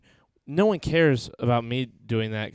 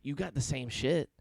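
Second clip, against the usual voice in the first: lightly imitated buddy talk; Steve-O-like friend; 3 dB quieter than usual. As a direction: quote him with a touch of Steve-O. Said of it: "He sounds like Steve-O".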